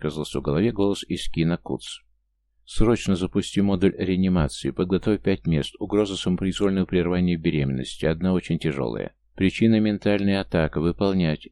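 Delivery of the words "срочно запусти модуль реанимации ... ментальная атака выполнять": plain reading voice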